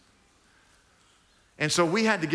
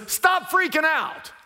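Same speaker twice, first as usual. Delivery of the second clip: Jesus reassuring; 10 semitones higher than usual. Retold or imitated. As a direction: cheerfully tell friends to calm down. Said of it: "Jesus says".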